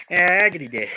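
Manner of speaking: imitating a Canadian greeting; lightly put-on Canadian; mock Canadian accent. Player teasing the game master's drift, mock Canadian accent. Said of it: "you just evolve into Canadian".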